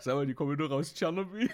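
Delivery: schnell und lachend. Retold or imitated.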